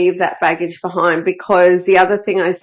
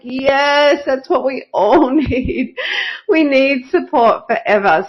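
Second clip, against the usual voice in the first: higher pitched, delighted yes; excited agreement; 6 semitones higher than usual. Retold or imitated. Coach answering the bookkeeper who wants support forever, delighted high-pitched yes. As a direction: gush back at her with joy. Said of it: "oh, I was like".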